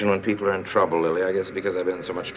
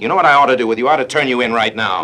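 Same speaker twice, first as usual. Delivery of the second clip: raised, threatening voice; angry threat; 4 semitones higher, 6 dB louder, faster than usual. Acted. Man threatens the woman with turning her in, angrily loud. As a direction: lay into her hard.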